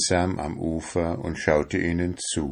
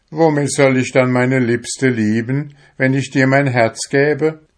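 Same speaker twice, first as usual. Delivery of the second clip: put-on higher, louder outcry of a young fisherman; exclaimed; 7 semitones higher, 5 dB louder than usual. A narrator's reading. Fisherman refusing his soul, crying out in disbelief. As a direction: cry it out in disbelief. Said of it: "rief er aus".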